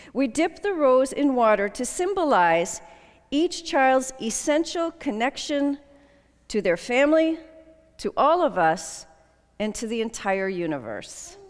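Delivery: measured, solemn ceremony reading; ceremonial address. Acted. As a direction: read the liturgy with calm dignity. Leads dedication ceremony.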